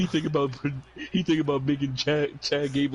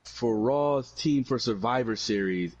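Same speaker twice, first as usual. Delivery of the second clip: drawn-out ring announcement; slow, dramatic wrestling reveal; slow announcer build; slower than usual. Retold or imitated. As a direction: stretch it out like a big reveal. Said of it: "he comes out and he says".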